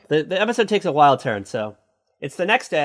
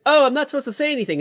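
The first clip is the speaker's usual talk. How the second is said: imitating flustered friend; 10 semitones higher, much faster than usual. Friend blurts out, then runs away.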